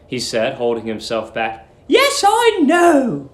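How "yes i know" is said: sweet landlady. Acted. Landlady luring the young lodger, high sugary coo. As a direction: coo at him like a doting landlady.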